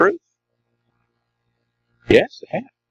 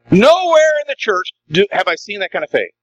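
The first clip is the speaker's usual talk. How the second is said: emphatic Jesus quote; 3 semitones higher than usual. Retold or imitated. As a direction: stress Nowhere hard. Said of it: "if Jesus said today".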